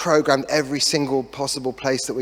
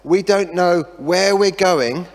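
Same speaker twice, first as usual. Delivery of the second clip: incredulous wife; 4 semitones higher than usual. Retold or imitated. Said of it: "She says".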